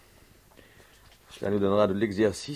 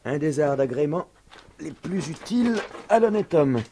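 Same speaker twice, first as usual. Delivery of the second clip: exuberant; 7 semitones higher, 6 dB louder than usual. Acted. Climbing, boasting aloud.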